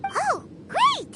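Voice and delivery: bright, delighted burst; happy exclamation; excited. Acted. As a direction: cheer at the good news. Paimon pleased the Shogun can leave.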